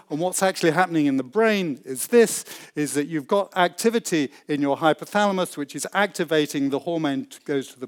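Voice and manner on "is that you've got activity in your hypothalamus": usual speaking voice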